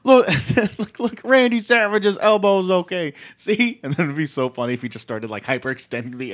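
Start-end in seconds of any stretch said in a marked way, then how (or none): 0.1-3.8 high, loud hammed-up wrestling promo; Hulk Hogan promo. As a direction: bellow like a brash wrestler. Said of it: "Hulk Hogan was cutting a promo".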